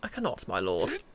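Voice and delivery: pinched nasal servant voice. Acted. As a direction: push it through the nose. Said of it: "I stand by the nasal voice".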